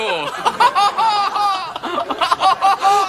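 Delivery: high, breathless burst of laughter; big laugh. Real, not acted. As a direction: crack up completely. The speaker laughing at Oscar's quip.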